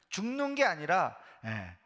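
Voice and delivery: usual speaking voice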